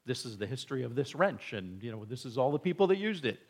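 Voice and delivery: fast, rambling over-explanation; rambling dad lecture. Retold or imitated. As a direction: rattle it off like a dad who won't stop. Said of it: "I'm giving him a history".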